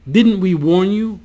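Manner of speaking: a reader's measured angry shout; mild yell. A narrator's reading. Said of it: "he yelled".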